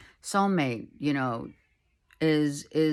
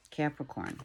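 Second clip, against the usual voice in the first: much softer, hushed repeat; soft echo; 2 semitones lower, 9 dB quieter than usual. Shown as a demonstration. Reader echoes the sign name, softly hushed. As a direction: let it fall away like an echo. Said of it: "sign name repeated, echoed".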